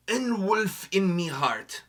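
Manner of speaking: slow, light Scottish lilt on "Ein Wolf in Me Heart"; a hint of Scottish burr, drawn out slowly; Scottish accent. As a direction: roll it out in a half-joking Scottish accent. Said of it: "I sound Scottish".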